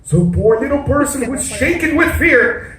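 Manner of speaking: put-on rhyming, lilting read-aloud to children; story narration. A narrator's reading. Storyteller reads rhyming tale to the children, lilting narration. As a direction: read the verse with a performer's bounce.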